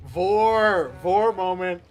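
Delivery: loud delighted yell; excited shout. Real, not acted. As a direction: blurt it out gleefully. Gamer exclaims at vore scene.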